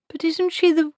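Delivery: very high, rising alarm; alarmed protest. Acted. Treatle objecting that Granny is a witch, alarmed. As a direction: splutter a protest.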